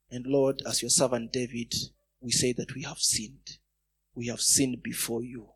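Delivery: low, solemn prayer voice; closing prayer. Real, not acted. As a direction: lead the congregation gently in repentant prayer.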